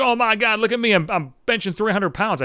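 hammed-up show-off lifter voice; mock gym bro. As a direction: brag like a preening meathead.

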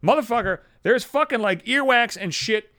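high-pitched, acted disgusted outrage; exasperated, panicky tirade; outraged inner rant. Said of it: "is what I'm thinking".

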